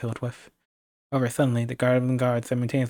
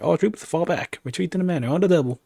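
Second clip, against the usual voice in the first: higher, urgent military command; shouted retreat order; 5 semitones higher than usual. Acted. Goblin chief ordering soldiers to flee, urgent shout. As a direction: call the troops back fast.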